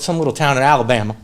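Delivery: lightly imitated Southern preacher; a hint of Southern twang; Southern accent. Preacher naming his home state, imitated Southern accent. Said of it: "Guy says in a very deep Southern accent".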